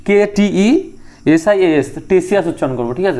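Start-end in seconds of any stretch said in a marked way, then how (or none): 2.1-2.5 টেসিয়াস said as 'Tesias', no K sound at the start; silent K pronunciation. Shown as a demonstration. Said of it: "আমরা এটা টি উচ্চারণ করবো না".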